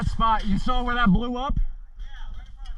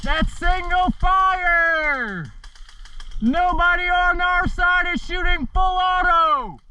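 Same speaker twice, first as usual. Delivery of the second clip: frustrated shout; 8 semitones higher, much slower than usual. Real, not acted. Frustrated callout over wrong fire mode.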